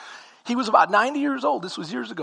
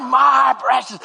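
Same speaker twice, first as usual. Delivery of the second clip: Gollum; 3 semitones higher, 3 dB louder, slower than usual. Retold or imitated. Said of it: "You know what I'm talking about?".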